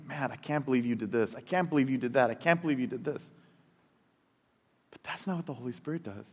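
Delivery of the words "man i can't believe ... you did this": strict disciplinarian. Retold or imitated. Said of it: "this strict disciplinarian of saying".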